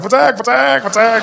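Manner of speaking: high, loud, repeated cry; punchy mock-carefree chant; cheerful exclaiming. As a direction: toss it out gleefully as you go. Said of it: "I run around like".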